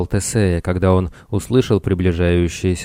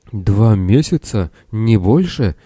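astonished question; 2 semitones higher, 3 dB louder, slower than usual. Acted. Castaway learns how little time passed.

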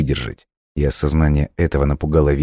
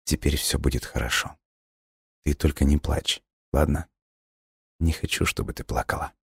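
hushed and tender, almost a whisper; soft comforting; 7 dB quieter than usual. A narrator's reading. Dying boy comforts the girl softly, hushed. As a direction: soothe her quietly.

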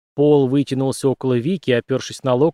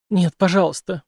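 moaned plea; 6 semitones higher than usual. Acted. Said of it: "простонала Вики".

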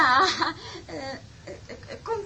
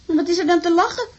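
mild scolding; 4 dB louder, faster than usual. Acted. Wife scolding laughing husband, money.

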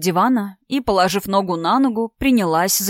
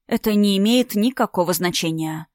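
even, unhurried reply; calm. Acted. Alina calmly dismissing the old romance, even and cool. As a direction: say it coolly, untouched. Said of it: "спокойно ответила Алина".

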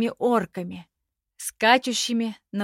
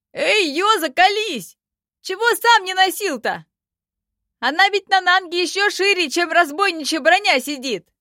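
much higher, louder squeaky goblin; Dara's voice; 10 semitones higher, 6 dB louder than usual. A narrator's reading. Dara teases Yoza about the mail, much higher. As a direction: needle the elf, shrill and loud.

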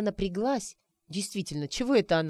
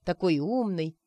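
ordinary delivery

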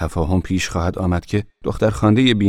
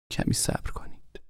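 soft breathy whisper at the door; hush, keep it barely audible; 13 dB quieter than usual. A narrator's reading. Niece at the night door to uncle, whispering. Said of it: "با صدایی آهسته گفت".

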